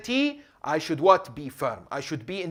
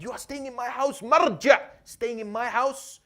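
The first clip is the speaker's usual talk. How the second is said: excited welcome; 8 semitones higher, 4 dB louder than usual. Acted. Jubilant man welcomes the marja.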